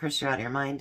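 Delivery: normal talking voice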